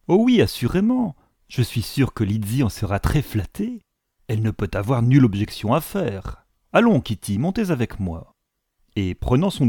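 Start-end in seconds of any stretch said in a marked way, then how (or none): 0.1-8.3 eager mother. Acted. Mother eagerly agrees, hurries Kitty away.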